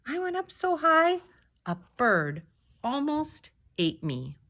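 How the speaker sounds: high, playful tall-tale boast; boastful exaggeration. Grandpa bragging to granddaughter, playfully high. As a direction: brag like a grandpa spinning a yarn.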